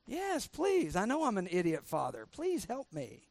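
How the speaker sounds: mock grateful, sarcastic plea; sarcastic mock pleading. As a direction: fake humble thanks, dripping sarcasm. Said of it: "that's sarcastic".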